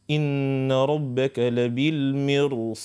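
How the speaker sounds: very slow recited verse; Quran recitation. Shown as a demonstration. Teacher recites the Surat al-Fajr example, very slow. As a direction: recite it slowly with full tajwid. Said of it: "مثلًا سورة الفجر".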